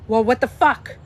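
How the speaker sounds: loud, mock-outraged outburst; hammed-up indignant rant; imitating someone triggered. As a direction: act out a sweary flare-up, punching the swear words. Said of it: "as soon as she gets triggered".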